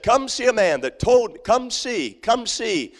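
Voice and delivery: calling neighbours to come see; excited Samaritan woman calling out. Retold or imitated. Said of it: "and she said".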